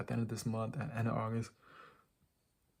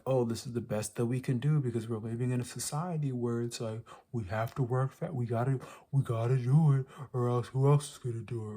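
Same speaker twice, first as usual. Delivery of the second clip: lightly hammed-up mock pleading, rising on the urgent bits; mocking excuse-maker. Vlogger quoting people who defend the system, mocking. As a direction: imitate people making excuses, pushing the key words. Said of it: "I hate when people, motherfuckers say that".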